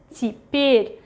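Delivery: Теперь with the first е as i, stress on the second; reduced unstressed Ye. Shown as a demonstration. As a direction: say теперь as ti-PYER, modelled for learners. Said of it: "pronounced as И".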